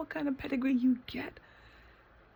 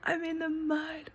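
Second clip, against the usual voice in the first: mock announcing to the world; 5 semitones higher than usual. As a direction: half-whisper an ecstatic announcement to the world. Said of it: "I should be like".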